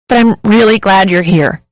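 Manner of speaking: tearful and wavering, the words catching; a hint of crying, relieved; through a sob. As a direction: hold back a sob while saying it. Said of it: "I say through a sob".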